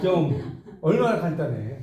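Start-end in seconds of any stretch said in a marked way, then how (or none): 0.0-0.6 좀 said short and clipped like a Gyeongsang command, with a laugh; a laughing one-word Gyeongsang order, 좀; Gyeongsang curt 좀. Retold or imitated. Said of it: "근데 경상도 말은". (웃으며 경상도식으로 툭 던지는 좀)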